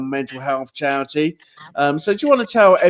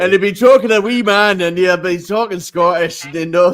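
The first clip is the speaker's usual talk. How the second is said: a weak, mostly English attempt at a Scottish accent, louder; hammed-up bad Scottish accent, raised voice; 3 semitones higher, 4 dB louder than usual. Host teasing his guest, half-hearted Scottish accent. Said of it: "That's my best Scottish".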